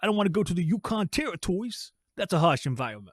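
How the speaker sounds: put-on New York accent. Imitating how people up in New York say it: imitating a New York accent. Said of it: "they say it like this".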